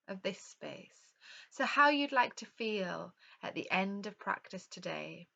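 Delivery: calm yoga nidra guidance with unhurried pauses; guided relaxation. Real, not acted. Yoga teacher leading an online class into rest, calm guided meditation. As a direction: guide them gently through breath and rest, leaving space between phrases.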